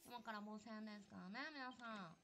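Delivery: put-on girly announcer voice. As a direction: play a sweet girl hostess. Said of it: "すげえ、女みたい".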